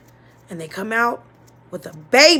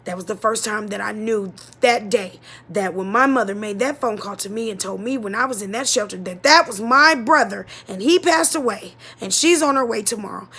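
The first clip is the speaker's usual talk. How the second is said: louder, building indignation; rising anger; 7 dB louder than usual. Real, not acted. Daughter realizing her mother lied, louder and indignant. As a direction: let the betrayal push the voice up. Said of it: "realizing the mother lied".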